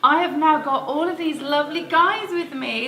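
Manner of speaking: loud presenter voice. Real, not acted. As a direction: take back the reins loudly. Hosts loudly over laughter.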